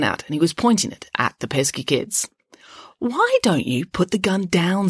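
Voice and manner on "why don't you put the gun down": kindly. Acted. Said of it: "suggested Loretta kindly".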